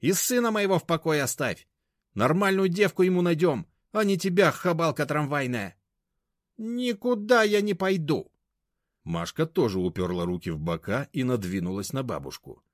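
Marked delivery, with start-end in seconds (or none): 0.0-5.8 high, loud, scornful; loud contemptuous high-pitched rant; abusive scolding. A narrator's reading. Grandmother berating Mashka. 6.6-8.3 high, loud, slow; slow high-pitched defiance; defiant refusal. A narrator's reading. Mashka refusing, hands on hips.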